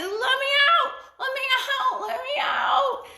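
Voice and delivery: very high, loud muffled cries; panicked cries. A narrator's reading. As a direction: scream to get out. Ostrich stuck in mouth.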